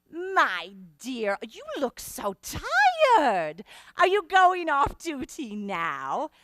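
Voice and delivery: lightly voiced grand lady, gushing; hint of a patronising passenger; Miss Spatz. Haughty passenger gives orders.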